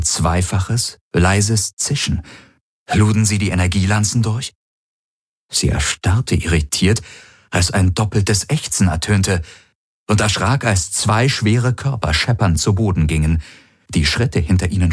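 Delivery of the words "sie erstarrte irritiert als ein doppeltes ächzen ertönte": usual speaking voice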